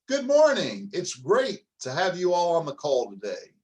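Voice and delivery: high, loud, cheerful good morning; bright upbeat greeting. Shown as a demonstration. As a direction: greet them like you're thrilled. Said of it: "Let's do the voice right now".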